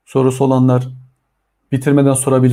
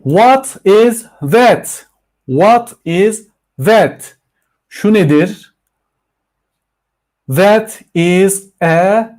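slow, exaggerated question and answer; slow teaching demo; 4 semitones higher, much slower than usual. Shown as a demonstration. Teacher drilling students on "What is this?", slow and exaggerated. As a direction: spell it out word by word for beginners. Models English answers for class.

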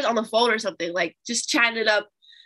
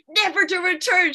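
higher, louder mom tossing in a line; imitating mom; 8 semitones higher, 6 dB louder than usual. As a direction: mom adding a decree from the stairs. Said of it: "She'll be like".

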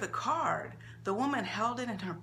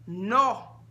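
a tight, louder clipped-off no; curt refusal through pressed lips; 2 semitones higher, 6 dB louder than usual. Acted. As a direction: refuse with the mouth held tight. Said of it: "Rosa said through tight lips".

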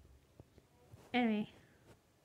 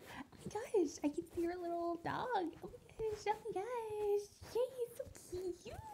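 excited; 5 semitones higher than usual. Acted. Excited character gushing.

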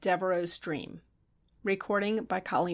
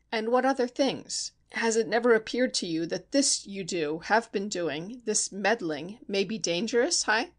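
menacing Steinmetz; 3 semitones higher than usual. Acted. Narrator voices Steinmetz threatening.

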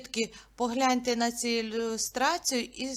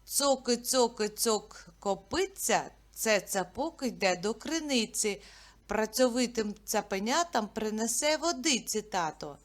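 tongue twister recital. Shown as a demonstration. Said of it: "Слідуюча скоромовка".

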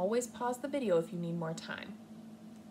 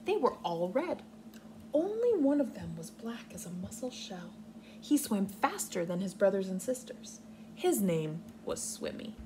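put-on reading to children. Teacher reading Swimmy aloud to her class, expressive storybook voice. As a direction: read it gently like a storybook. Reads picture book aloud.

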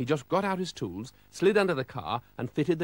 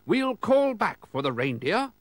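put-on higher, jolly old gent; Father Christmas voice; 9 semitones higher, 5 dB louder, slower than usual. Father Christmas telling Mister Oldcastle about the sleigh, higher jolly voice. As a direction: play the cheery Santa stand-in.

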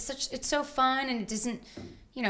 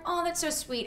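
mock gushing; 8 semitones higher than usual. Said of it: "We're like".

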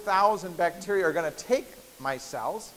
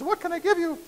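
genie voice; 11 semitones higher than usual. Acted. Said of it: "genie says".

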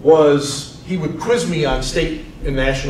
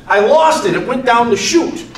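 fussed grandpa; 8 semitones higher, 5 dB louder than usual. Retold or imitated. Grandfather explaining lost nut.

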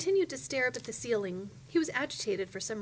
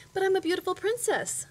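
higher, louder protest; indignant princess; 9 semitones higher, 5 dB louder than usual. A narrator's reading. Princess protests to indifferent witch.

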